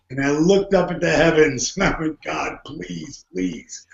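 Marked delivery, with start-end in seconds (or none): 2.2-3.9 hushed prayer. Retold or imitated. Looking up at the heavens, pleading.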